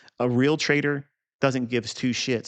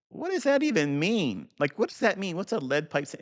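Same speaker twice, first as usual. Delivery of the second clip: puzzled; 7 semitones higher than usual. Retold or imitated. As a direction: act out your confusion on first reading the phrase. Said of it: "I'm like".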